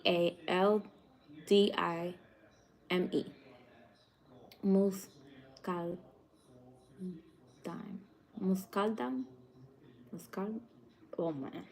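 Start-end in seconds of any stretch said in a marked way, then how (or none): 4.6-6.0 "Muscaldine" very slow, syllable by syllable; struggling pronunciation. Real, not acted. Streamer reading the spelled grape name, slow and halting. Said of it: "I cannot say that for nothing". 8.4-10.6 softer "Muscaldine" with a questioning rise, then giving up; unsure pronunciation. Real, not acted. Streamer failing to say the grape name, softly unsure. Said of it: "I cannot say that for nothing".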